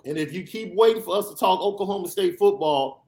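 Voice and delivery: ordinary delivery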